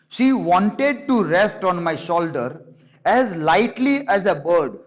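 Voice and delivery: slow, lingering reading of the quote; slow book reading. Acted. Teacher reading the stranger's line to the class, slow and lingering. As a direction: let the phrase drift out slowly.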